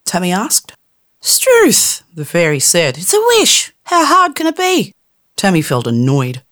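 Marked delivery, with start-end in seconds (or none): 1.2-4.9 exasperated fairy. Acted. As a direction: throw up your tiny hands in disbelief.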